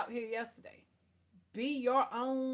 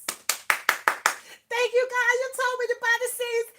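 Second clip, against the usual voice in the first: high, loud shout of thanks to God; re-enacted jubilant outburst at full voice; ecstatic praise shout; 12 dB louder, slower than usual. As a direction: holler it up high like overjoyed testimony. Acts out rejoicing over first harvest.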